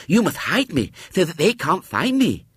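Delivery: put-on high lisping child's demand; insistent little girl Violet Elizabeth. A narrator's reading. Narrator voices Violet Elizabeth.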